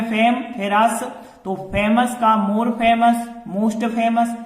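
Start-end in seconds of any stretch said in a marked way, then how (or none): 0.0-1.0 फेम then अस as two separate beats; syllable by syllable, like a teacher; split into syllables. Shown as a demonstration. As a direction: break फेमस into फेम - अस with a pause between. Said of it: "दो भागों में".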